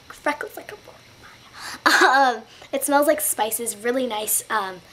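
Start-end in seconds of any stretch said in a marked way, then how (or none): 0.1-2.4 slow, higher-pitched mock dramatic repeat; playful put-on voice. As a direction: draw it out in a silly higher voice. Repeats it playfully after laughing.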